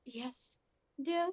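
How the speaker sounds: understated weary-sigh response. Acted. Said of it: "he sighs and goes".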